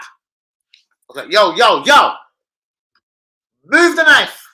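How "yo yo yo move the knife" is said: high, loud mock panic; retold panic. Kid with a knife on him, loud mock panic. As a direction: plead in a hurry to put it away. Begging knife boy to stop.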